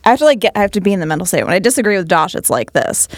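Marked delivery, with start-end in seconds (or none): 1.4-3.1 disagreeing voice. Shown as a demonstration. Showing friends how she disagrees with a co-host, disagreeing voice. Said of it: "let me see if I can do it".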